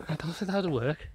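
a hint of Irish, slipping off course; understated mock Irish accent; attempted Irish accent. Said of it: "Even with your accent".

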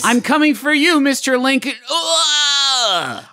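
high crying shout, dying; death cry. Shown as a demonstration. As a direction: wail it out as you die.

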